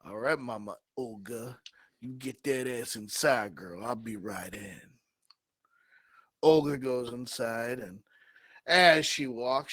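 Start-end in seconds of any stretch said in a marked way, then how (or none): 0.0-4.8 lightly voiced smooth guy, dropping low and soft; a hint of a laid-back ladies' man; cool Omar. Omar answering Olga, low and easy. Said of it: "Omar goes".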